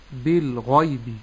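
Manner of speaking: slow "بالغيب", thick gh and light y and b; correct heavy ghayn. Shown as a demonstration. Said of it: "تفخيم الغين وترقيق الياء".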